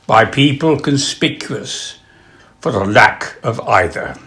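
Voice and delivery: deliberate phrasing with pauses, lifting on contemptuously; epigram reading. Acted. Sharing a spot of advice with an audience, measured reading. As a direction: deliver the witticism drily, falling away at the end.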